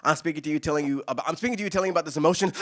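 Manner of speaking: imitated slam poet delivery, lilting upward; slam-poetry cadence. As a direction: mimic an overwrought slam cadence, pitch lifting. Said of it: "it can have a very, uh, a cadence of".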